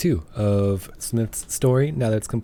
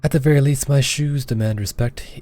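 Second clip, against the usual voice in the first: Antoinette voice. Acted. Player voicing Antoinette brushing off the proposal, a hint haughty. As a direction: play her dismissive and proud. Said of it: "I'm not gonna do this voice any longer".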